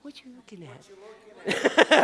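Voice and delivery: drawn-out playful prompt. Shown as a demonstration. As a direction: urge the crowd to say it. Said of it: "y'all are, like, really quiet".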